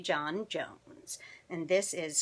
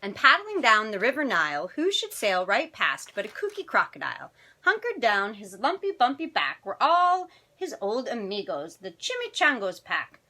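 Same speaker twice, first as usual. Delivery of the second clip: animated picture-book narration; children's story reading; 3 semitones higher, 5 dB louder than usual. A narrator's reading. Storyteller reading tonight's picture book to children, animated. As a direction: read it expressively to young listeners.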